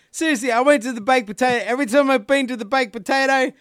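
high-pitched exasperated rant; fired-up complaint. Real, not acted. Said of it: "This is Rant, Rant McCubbin".

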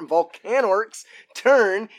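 Volcanorc's said slowly and deliberately, stretched out; slow correction. Shown as a demonstration. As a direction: drag out Volcanorc's as a careful fix. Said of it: "or at the start of each".

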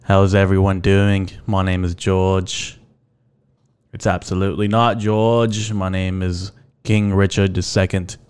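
mock-announcer welcome, easing off; put-on intro voice. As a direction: put on a silly podcast-host voice. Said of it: "stop talking like this now".

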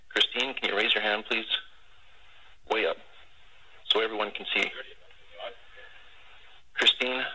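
proposal over tinny radio; heartfelt announcement over a crackly radio; air traffic control radio. Real, not acted. Played air traffic control recording.

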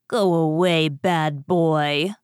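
lightly voiced cross woman; scolding ogre's wife. A narrator's reading. Ogre's wife turns Jack away, lightly scolding. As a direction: send him off with a firm scolding.

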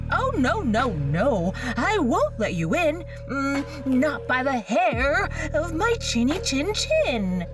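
high squeaky pig refusal; little pig voice. Acted.

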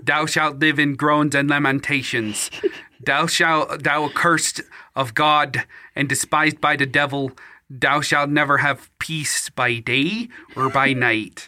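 a faint hint of Cyril's mixed accent, laying on a curse; Cyril impression. Poor fisherman curses the bandit, light Cyril accent. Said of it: "I'm gonna do my best Cyril impression".

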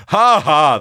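big booming laugh; loud ha ha. Acted. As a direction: burst out laughing from inside the bear suit. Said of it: "his growlings changed to a loud".

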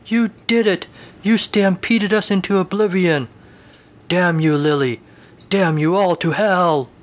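cowboy cursing his horse, wailing; wailing rant. Acted. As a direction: rail at the heavens. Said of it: "at the wailing".

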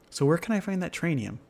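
pushy, impatient giant. Acted. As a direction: demand it, running out of patience. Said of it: "the giant asked the boy impatiently".

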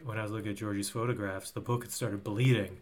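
put-on stammering kid; stutter impression. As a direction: stammer through it, stuck on "and". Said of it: "Is that your stutter?".

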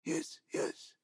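frightened whisper. A narrator's reading. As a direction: breathe it out in a whisper. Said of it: "Giuseppe whispers".

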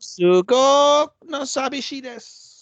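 put-on high, drawn-out lonely anime girl voice; anime girl impression. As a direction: whine it slowly and loudly in a high cutesy anime voice. Mimics lonely anime girl in Japanese.

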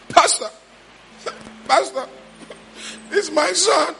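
distressed father. Retold or imitated. Father pleading about violent son.

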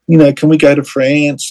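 put-on high, eager child's voice asking; imitating a thrilled kid begging to go; excited daughter. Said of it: "so excited".

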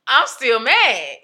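slow, loud, drawn-out protest; emphatic complaint. Retold or imitated. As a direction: draw out the grievance loudly, as if retelling it. Retells own complaint to therapist.

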